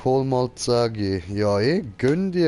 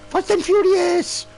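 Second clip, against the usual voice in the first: high, loud hype yell; excited shout; 7 dB louder than usual. Real, not acted. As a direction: shout it out like a movie trailer. Hyped shout at drift.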